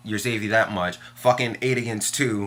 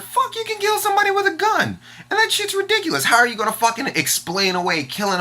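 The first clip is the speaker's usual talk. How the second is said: angry outburst; 4 dB louder than usual. Real, not acted. Angry retort in heated argument.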